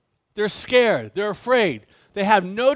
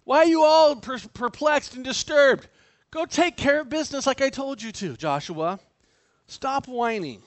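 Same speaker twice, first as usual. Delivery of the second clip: exasperated rebuke; 5 semitones higher than usual. Acted. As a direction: scold him to get up and act. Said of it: "It's like".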